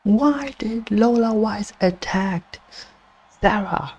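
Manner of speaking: stunned play-by-play call, pitch jumping up; shocked commentator. Real, not acted. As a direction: call it like the match just got crashed.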